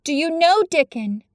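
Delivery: turning round in a hurry; eager girl. Acted. Mary eager question.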